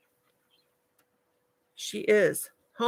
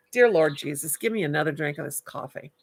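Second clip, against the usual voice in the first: whispered plea; 3 semitones lower than usual. Real, not acted. Mock prayer for more coffee.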